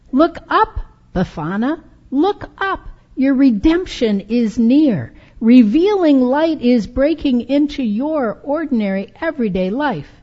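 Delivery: high, loud urgent call; shout. Acted. Preacher calling out to Befana in the story, high loud shout. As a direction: shout up to her to look up. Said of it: "I want to shout".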